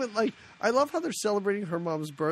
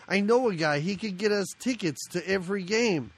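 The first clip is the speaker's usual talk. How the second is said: put-on Chicago wise-guy accent. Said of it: "Dennis Farina".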